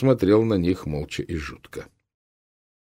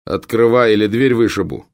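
loud threat; 3 semitones higher, 6 dB louder than usual. Acted. Captain threatens to break door.

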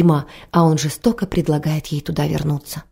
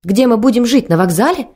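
higher, louder tearful cry; sobbing; 6 semitones higher, 4 dB louder than usual. A narrator's reading. Wife sobbing about where they will live, a mild tearful cry. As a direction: cry out in tears. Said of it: "рыдала она".

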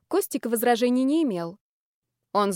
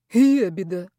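snorted insult; 2 semitones lower, 4 dB louder, slower than usual. Acted. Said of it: "фыркнул родственник".

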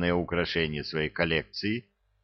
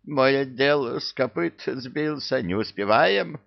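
plaintive deputy; 6 semitones higher than usual. Acted. Deputy pleading with boss.

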